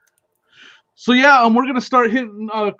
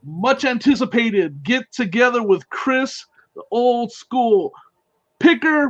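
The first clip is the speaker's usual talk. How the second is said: grand announcer intro; 2 semitones higher, slower than usual. Acted. Host's mock-grand announcement of guest.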